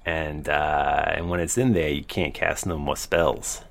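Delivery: lightly voiced weaselly cellmate; a hint of a sly lizard prisoner; feral wasteland raider. Dragonborn cellmate talks.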